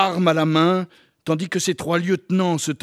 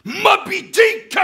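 high, drawn-out howl of the name; howled shout; 6 dB louder, much slower than usual. A narrator's reading. Ahab reacting to the name Moby Dick, howling. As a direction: bellow it, loud and high-pitched. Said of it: "hurla Akab".

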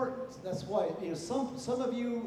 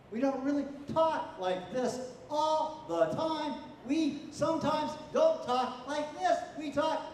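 higher, bouncing up-and-down delivery; mock the choppy rhythm with a raised pitch; sing-song rhythm; 5 semitones higher than usual. Shown as a demonstration. Teacher demonstrating students' bouncy rhythm. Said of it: "This kind of rhythm is a problem".

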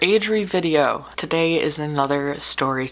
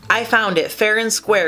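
mock shout; 7 semitones higher, 4 dB louder than usual. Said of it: "shouted Little Blue".

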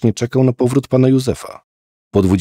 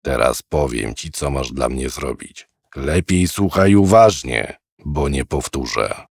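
put-on old man; 6 semitones lower than usual. Old man gives orders.

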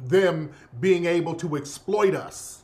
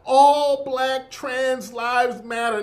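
mock sympathy; 4 semitones higher, slower than usual. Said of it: "they doing it to the trans people".

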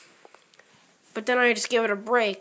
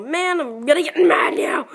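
getting mad; 4 semitones higher, 5 dB louder than usual. Real, not acted. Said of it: "now I'm getting mad".

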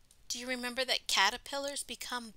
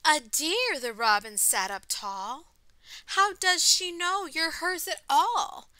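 louder, lilting storybook reading; story read-aloud; 10 dB louder, slower than usual. A narrator's reading. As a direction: read it out to children, slowing for the refrain. Reading picture book aloud to children.

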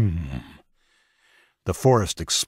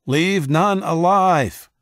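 high, loud, slow battle scream; slow vicious war cry; screamed order; 11 semitones higher, 4 dB louder, much slower than usual. A narrator's reading. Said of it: "he screamed".

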